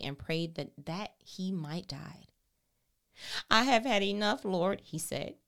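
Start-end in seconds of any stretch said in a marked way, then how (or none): 3.5-5.4 anguished plea. Acted. Elijah's lament read with force.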